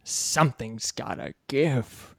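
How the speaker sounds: slow, squeaky line delivery. Acted. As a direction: squeeze the line out slowly and squeaky. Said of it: "a different, more squeaky voice".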